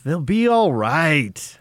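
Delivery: very slow soothing reassurance; calm and reassuring. Shown as a demonstration. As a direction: take a breath and soothe. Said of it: "Deep breath".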